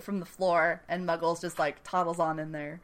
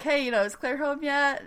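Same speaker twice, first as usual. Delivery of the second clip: lightly voiced creepy villain; 6 semitones higher than usual. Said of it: "so he's like".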